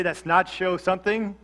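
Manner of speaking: "nacho" run together for "not your"; "nacho" with a ch in the middle; slurred NACHO. Shown as a demonstration. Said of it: "I had a southern drawl".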